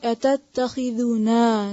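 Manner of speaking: "أتتخذنا" with the last "naa" held long; don't shorten the alif ending of "أتتخذنا"; long final naa. Shown as a demonstration. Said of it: "इसको छोटा नहीं कर देना". ("أتتخذنا" के आख़िर का "ना" लंबा)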